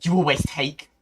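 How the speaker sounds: loud, anguished tearful cry; tearful accusation. Acted. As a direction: choke it out in tearful rage. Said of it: "I can't do a crying voice after this".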